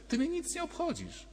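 a lightly voiced Pilate, coldly honest; Pilate's blunt reply. Pilate answering Jesus bluntly, high and cold.

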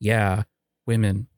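slow, half-hearted fake chuckle and agreement; feigned agreement. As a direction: play along unconvincingly, dragging it out. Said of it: "just ended up lying".

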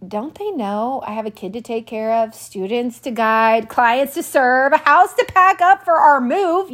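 exasperated inner thought. Retold or imitated. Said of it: "I'm thinking".

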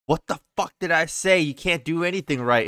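retold scolding, pitched a bit up; mildly acted exasperated telling-off; arguing mom. Mom blaming dad as the little sister cries, mock scolding. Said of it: "they're over there arguing at each other".

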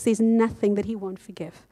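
hushed whisper. Real, not acted. Preacher to congregation, reassuring in a whisper. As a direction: drop to a whisper on forgiveness.

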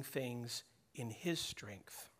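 whispered. Real, not acted. Quiet confession in sermon.

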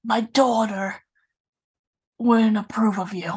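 badly faked New York mobster accent; mock New York gangster accent. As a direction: lay on a clumsy New York mafia accent. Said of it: "your bad New York accents".

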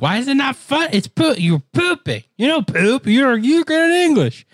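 high-pitched, exasperated disbelief; mock incredulous protest. Arguing with a local that it is funny, mock incredulous. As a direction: protest way up high, acting baffled.

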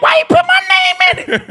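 very high-pitched protest; indignant disbelief. Retold or imitated. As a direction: squeal a mock-outraged complaint. Repeats outraged reaction.

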